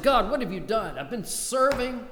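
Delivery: high, loud desperate plea to God; Elijah's anguished complaint. Acted. Elijah complaining to God that his work bears no fruit, in a loud, high anguished plea. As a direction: cry out like a worn-out prophet.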